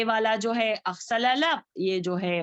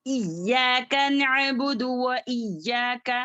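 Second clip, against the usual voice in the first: slow, level-toned verse with elongated vowels; Quran recitation; slower than usual. Shown as a demonstration. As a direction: recite measuredly, holding the long syllables.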